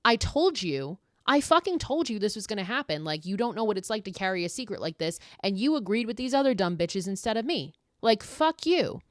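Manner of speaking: lightly acted angry telling-off; indignant I-told-you-so. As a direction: scold a friend who ignored your warning. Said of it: "if I was Cassidy, I would be like".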